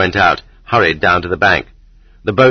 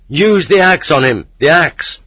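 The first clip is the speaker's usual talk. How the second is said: high, urgent yell; calling out; 8 semitones higher than usual. A narrator's reading. Pursuer threatens the fleeing man from behind, calling out. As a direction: urge an attack from behind the runaway. Pursuer calls out during chase.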